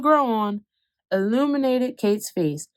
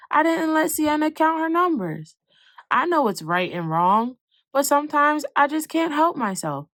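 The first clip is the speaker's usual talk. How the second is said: put-on upset child; 6 semitones higher than usual. Upset child confessing to mom.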